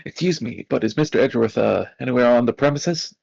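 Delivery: polite rookie officer asking; younger officer voice. Acted. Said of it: "I should really change this one".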